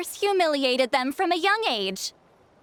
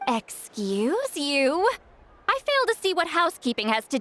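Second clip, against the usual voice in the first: indignant; 3 semitones higher than usual. Acted. Offended at a remark.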